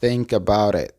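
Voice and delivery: "think about it" linked, T of "about" tapped; words joined. Shown as a demonstration. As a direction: run "think about it" into one word. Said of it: "se unen y se pronuncia". ("think about it" unido, T como R suave)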